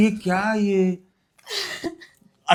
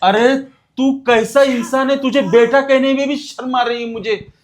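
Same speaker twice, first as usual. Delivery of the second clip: disgusted scolding; 2 semitones higher than usual. Acted. Father scolds son for abusing widow.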